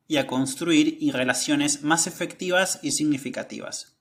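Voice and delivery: measured article reading with emphatic phrase openings; slightly lifted, careful read-aloud voice. Acted. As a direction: read the study out clearly, phrase by phrase. Reads study aloud.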